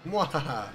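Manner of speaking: quick villain mwahaha; Mandark laugh. Retold or imitated. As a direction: snap out a short evil laugh. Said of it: "Checking it from Mandark".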